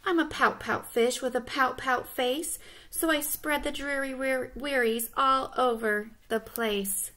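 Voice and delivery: singsong refrain, slowing at the end; understated pouty-fish refrain; lightly voiced glum fish. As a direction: chant the rhyme as a mildly mopey fish.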